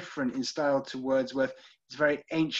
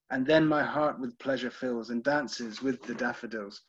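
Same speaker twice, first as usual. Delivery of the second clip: poem recitation. Acted. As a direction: recite it line by line, lingering on the rhymes. Recites Wordsworth's poem to the class.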